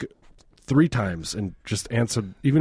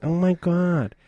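higher, gushing mock of mom; mother's voice; 7 semitones higher, slower than usual. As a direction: imitate mom gasping in delight. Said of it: "This was actually my mother's voice".

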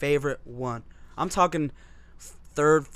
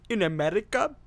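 Indian accent; 5 semitones higher than usual. Shown as a demonstration. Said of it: "the Indian accent has, like, more R's".

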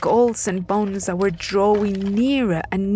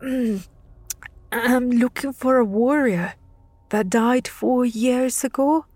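put-on higher, trembling boy voice; frightened boy answers the death lords; shaky voice; 4 semitones higher than usual. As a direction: shake through the words. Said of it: "continuing with a shaky voice".

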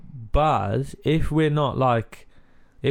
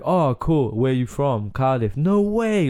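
impressed surprise; 2 semitones higher, slower than usual. Retold or imitated. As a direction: act amazed like a fan hearing Cardiff. Fans reacting to Cardiff.

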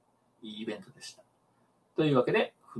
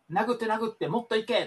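怒鳴るセコンド; 9 semitones higher, 3 dB quieter than usual. Retold or imitated. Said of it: "セコンドの人が結構なんかわーわー".

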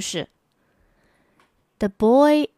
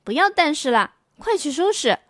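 firm mother; 5 semitones higher than usual. Acted. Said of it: "妈妈说".

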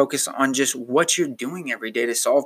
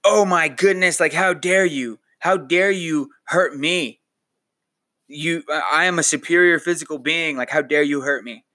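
mock angry rant; 2 semitones higher than usual. Podcaster mocking a listener raging at the bed, mock indignant. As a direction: play the petty indignant toe-stubber. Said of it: "mad person who is just shouting at the bed".

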